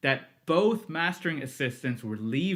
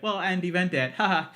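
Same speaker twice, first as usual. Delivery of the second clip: jolly, higher-pitched reply with a haha; fun and jolly; 6 semitones higher, 3 dB louder than usual. Retold or imitated. Man jovially introducing himself to the new hire, fun and jolly. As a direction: imitate a jovial introduction, ending on a laugh. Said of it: "he was, like, fun and jolly".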